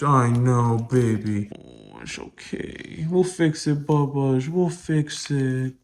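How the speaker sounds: slow, tender reassurance to a dog; gentle, slow cooing; soothing pet talk. Real, not acted. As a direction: comfort your poor pup, drawing the words out.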